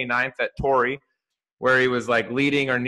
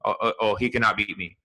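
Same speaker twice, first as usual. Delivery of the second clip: lightly imitated Spanish accent, straight-faced; deadpan golfer with a hint of Spanish accent. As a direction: quote him in a mild Spanish accent, no joking around. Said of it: "this is my Spanish accent".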